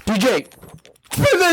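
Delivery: slow drawn-out hype call; yelling. Acted. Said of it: "We're gonna yell it".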